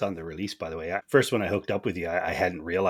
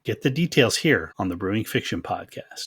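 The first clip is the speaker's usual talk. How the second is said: upbeat, raised announcer voice for a podcast promo; bright ad read, a bit higher and louder; 5 semitones higher, 5 dB louder than usual. Acted. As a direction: sell it like a radio spot. Host reads podcast promo.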